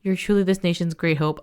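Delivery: steady news-anchor read; measured report voice; newspaper read-aloud. Acted. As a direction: read it like a bulletin. Reads in-game newspaper aloud.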